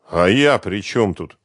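slow, puzzled innocent question; genuinely baffled; sincerely surprised. Acted. The bass guitarist asks Svetlana, genuinely puzzled. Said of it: "искренне удивился бас-гитарист".

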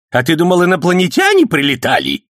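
put-on high, loud sarcastic old man; snapping back. A narrator's reading. Old man snapping sarcastically at the policeman. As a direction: snap at him mockingly. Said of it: "огрызнулся Сан Саныч".

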